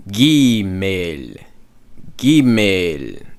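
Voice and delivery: gimel said GEE-mel with a clear ee and a falling end; right gimel. Shown as a demonstration. Teacher giving the right gimel after the wrong one. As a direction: land gimel on a clean ee sound. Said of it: "but gimel".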